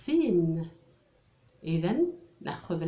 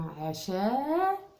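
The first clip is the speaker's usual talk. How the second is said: drawn-out word; 4 semitones higher, much slower than usual. Shown as a demonstration. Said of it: "teacher sounds out the word".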